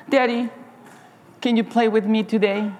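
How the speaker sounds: lightly voiced little boy, pleading; a hint of a small boy asking Daddy to play; child begging. Boy begging busy father to play, lightly childlike.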